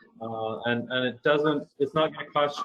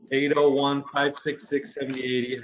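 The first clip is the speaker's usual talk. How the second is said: radio announcer voice; 3 semitones higher than usual. Real, not acted. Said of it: "I sound like a radio guy when I say that".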